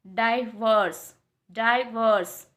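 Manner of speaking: डाइवोर्स with a reduced "vers"; डाइवोर्स said slowly and carefully; correct pronunciation. Shown as a demonstration. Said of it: "main pronunciation होता है डाइवोर्स". (डाइवोर्स का सही उच्चारण)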